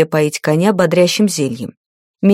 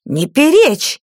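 higher, barked order; furious bark; 7 semitones higher, slower than usual. A narrator's reading. Enraged mistress cuts off her page, furious bark. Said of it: "рявкнула взбешённая хозяйка".

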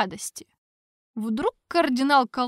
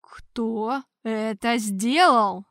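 slow, louder, stern demand; hard repeat; 4 dB louder, much slower than usual. Acted. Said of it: "жёстко повторил Тарквимада".

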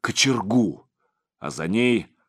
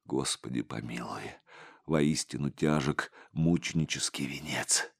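breathless whisper, much lower and softer; whispered prayer; 7 semitones lower, 10 dB quieter than usual. A narrator's reading. Tortured monk prays to God in a whisper. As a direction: pray for mercy in a bare whisper. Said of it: "прошептал отец Егорий".

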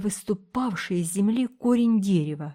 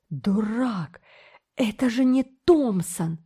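angry shout; 3 semitones higher, slower than usual. A narrator's reading. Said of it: "гневно крикнул старший золотоискатель".

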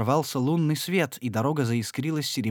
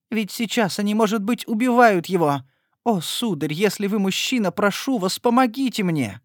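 higher, louder frantic begging; desperate plea; 9 semitones higher, 4 dB louder than usual. A narrator's reading. Lady begging Etienne for help: desperate plea. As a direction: beg him to save him.

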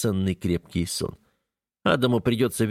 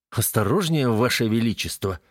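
mocking. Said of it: "насмешливо бросает Катан".

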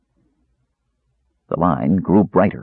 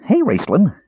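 high, eager kender call; excited kender shout; cried out; 12 semitones higher than usual. A narrator's reading. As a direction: call out to him, bright and high. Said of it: "Earwig cried".

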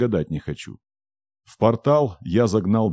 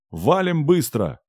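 higher, slower shout; 8 semitones higher, slower than usual. Acted. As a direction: stretch out "Валим быстро!" in a high slow yell. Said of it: "Ору во всю глотку".

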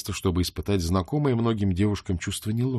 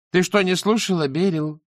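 scornful rebuke; 9 semitones higher, 4 dB louder than usual. Acted. Shayana rebuking Beryl.

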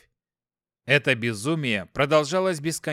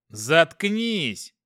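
curt angry interruption; 3 semitones higher, 3 dB louder than usual. Acted. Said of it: "Бесцеремонно прервал я".

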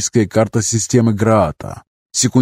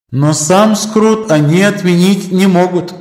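high light female voice; Мэлла's voice; 9 semitones higher, 4 dB louder, slower than usual. Acted. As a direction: voice inside his head. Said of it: "голос Мэллы".

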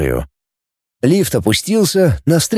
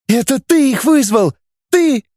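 high accusing yell, rising even higher; screaming at brother; 11 semitones higher than usual. A narrator's reading. Claude screaming at her brother for betraying them. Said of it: "она закричала".

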